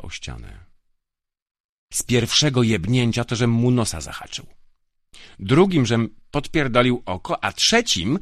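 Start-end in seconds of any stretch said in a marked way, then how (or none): 1.9-8.2 put-on loud, higher drunken bragging; boasting. A narrator's reading. Young guard boasting to Grifo about each blow, loud. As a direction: gloat blow by blow. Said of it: "chełpił się młody".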